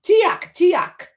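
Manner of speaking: high, excited storybook animal cries; high repeated animal calls. Acted. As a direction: call out like a creature in the trees. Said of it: "another one makes a sound".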